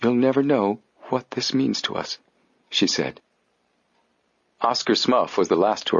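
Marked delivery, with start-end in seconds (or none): 0.0-2.2 trembling voice. Acted. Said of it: "her voice trembled".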